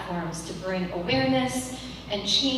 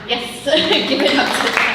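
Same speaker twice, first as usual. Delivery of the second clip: calling out; 5 semitones higher, 9 dB louder than usual. Real, not acted. Rousing applause for the panel.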